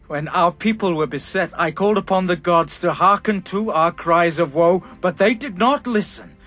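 rising anger. Acted. King rails at the gods.

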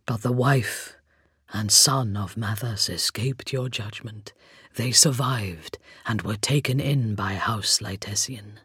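low hollow rasp; skeleton voice. A narrator's reading. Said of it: "the hollow timbre of his voice".

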